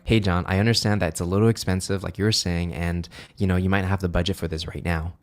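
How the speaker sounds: low late-night radio voice; calm, low radio-host delivery; cool voice. Shown as a demonstration. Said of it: "switch from the positive voice into my cool voice".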